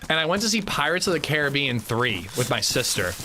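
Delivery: talking while chewing; words around a bite of food; mouth full. Real, not acted. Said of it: "Sorry, chewing".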